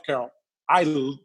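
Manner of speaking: ordinary talk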